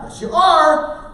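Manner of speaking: loud, high, drawn-out contradiction; insistent overruling. Retold or imitated. Parent overruling a refusing teenager, loudly insistent. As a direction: overrule them, stretching out the last word.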